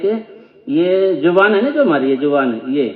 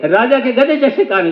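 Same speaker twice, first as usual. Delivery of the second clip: mock shout; 5 semitones higher than usual. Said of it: "जोर जोर से बोले".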